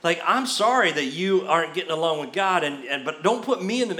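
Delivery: mildly affronted, keeping out of it; acted-out touchy objection; mock attitude. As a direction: push back with light sass. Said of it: "you can just sense his attitude".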